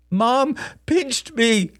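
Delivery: put-on high, very slow child voice; drawn-out, squeaky complaint; whining little boy. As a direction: tattle like a hurt six-year-old. Small boy tearfully tells on mother.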